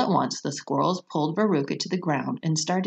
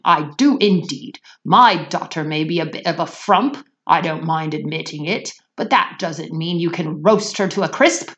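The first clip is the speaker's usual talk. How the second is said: indignant; 5 dB louder than usual. Acted. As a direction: protest like an offended gentleman. Mr Salt indignant complaint.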